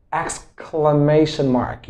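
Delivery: exclamation said slowly, ex-cla-MA-tion, stress on MA; teacher's slow model of exclamation mark; careful pronunciation demo. Shown as a demonstration. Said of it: "know how to pronounce it correctly".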